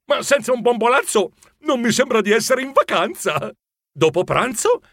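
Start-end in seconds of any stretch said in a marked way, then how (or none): 0.0-3.5 talking through a mouthful; higher, food-muffled reply; mouth full. A narrator's reading. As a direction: answer while munching, voice pitched up. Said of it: "risposi con la bocca piena".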